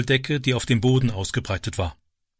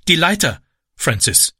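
brisk call to her son; mildly raised urgent call; 4 semitones higher than usual. A narrator's reading. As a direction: call out the order, then drop on the name. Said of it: "rief sie".

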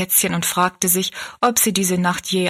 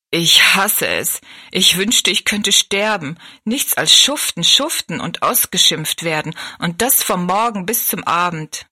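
overworked maid venting, louder and bitter; bitter outburst; 4 dB louder than usual. Acted. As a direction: spit out the hatred of drudgery. Maid bursts out about her life.

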